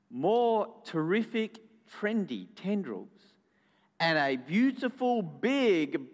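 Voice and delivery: slow, measured storytelling with pauses; story narration to children. A narrator's reading. Storyteller tells children of next summer's grapes, narrating slowly. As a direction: savour each phrase of the happy ending. Reads the happy ending to children.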